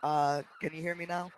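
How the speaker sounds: faint, distant mic sound; far away. Real, not acted. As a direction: heard as if through a wall. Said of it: "You sound so far away".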